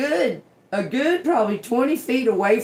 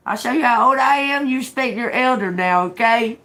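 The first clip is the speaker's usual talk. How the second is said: louder, higher warning to respect elders; loud threat; 6 semitones higher, 5 dB louder than usual. Retold or imitated. Teller threatens the drunk young woman in a loud, angry warning. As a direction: lay down the law.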